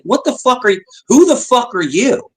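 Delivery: high-pitched retold indignation; mock-outraged comeback; indignant comeback. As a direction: throw the challenge back, pitch jumping up. Retold indignant comeback to a bossy woman.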